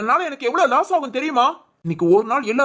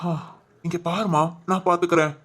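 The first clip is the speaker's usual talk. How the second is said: gentle comfort; 5 semitones lower than usual. Acted. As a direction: soothe her so she stops crying. Comforting crying girlfriend. (மென்மையாக ஆறுதல் சொல்வது)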